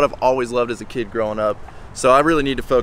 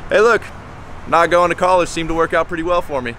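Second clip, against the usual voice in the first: mock gloat; 4 semitones higher than usual. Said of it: "didn't need to say".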